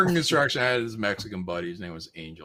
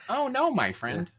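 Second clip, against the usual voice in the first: slower, higher "Oh, no, my friend"; imitating Angel; 8 semitones higher, slower than usual. Repeating the buddy's catchphrase as Angel, slower. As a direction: another go at Angel. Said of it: "That's Angel".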